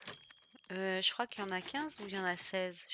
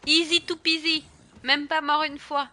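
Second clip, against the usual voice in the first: high, loud bragging; gloating; 7 semitones higher, 11 dB louder than usual. Real, not acted. Streamer bragging after victory, high loud gloat. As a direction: crow about the win.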